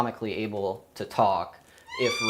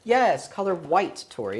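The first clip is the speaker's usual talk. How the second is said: praising a pet; 7 semitones higher, 4 dB louder than usual. Real, not acted. Praising the parrot.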